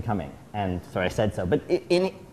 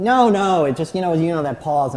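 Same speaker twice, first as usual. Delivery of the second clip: dismissive dad; 5 semitones higher, 4 dB louder than usual. Retold or imitated. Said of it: "he's very mad".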